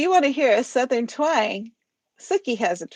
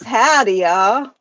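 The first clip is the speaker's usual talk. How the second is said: Southern greeting; 6 dB louder, slower than usual. Retold or imitated. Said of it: "Ash says".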